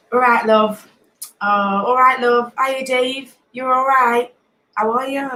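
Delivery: friendly hellos in a Nottingham accent; Nottingham greetings. Shown as a demonstration. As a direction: run through local Nottingham greetings. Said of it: "I don't think we say that in Nottingham".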